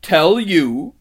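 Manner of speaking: high, loud, incredulous witch; shrill outraged echo, swooping up; suddenly shrill. A narrator's reading. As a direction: fling it back shrilly. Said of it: "her voice growing suddenly shriller".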